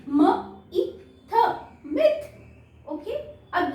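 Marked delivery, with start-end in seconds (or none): 0.1-2.2 "म, ई, थ" sounds blended into "मिथ"; sounding out. Shown as a demonstration. Teacher blending sounds into "मिथ" for kids. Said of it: "हम इसको कैसे पढ़ेंगे".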